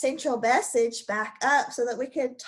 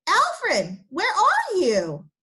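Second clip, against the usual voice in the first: higher, louder call across the yard; 6 semitones higher, 5 dB louder, much slower than usual. Acted. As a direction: call out to find your hiding friend. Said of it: "Then he heard Rex call".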